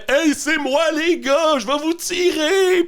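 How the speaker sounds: high yelled call from a distance; far away shout. Retold or imitated. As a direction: shout it across the street, very high. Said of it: "Il crie de loin".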